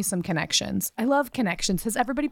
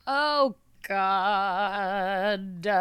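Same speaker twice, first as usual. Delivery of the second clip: long, stretched-out groaning exclamation; drawn-out groan; 2 semitones lower than usual. Acted. Host pulling up their notes, exaggerated groan. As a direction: groan it out slowly.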